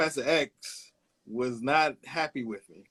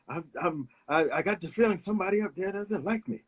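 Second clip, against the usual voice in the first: sing-songy voice; 5 semitones higher, faster than usual. Retold or imitated. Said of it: "in his, his sing-songy voice".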